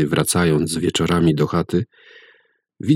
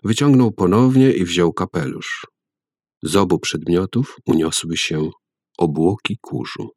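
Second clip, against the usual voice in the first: ordinary delivery, nothing marked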